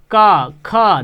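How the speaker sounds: का and ख sounded firmly from the throat; throat sounds demo. Shown as a demonstration. Teacher showing students where का comes from, firm throat sounds. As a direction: push का then ख out from the back of the throat. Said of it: "देखिए कंठ से आवाज़ निकल रही है ना".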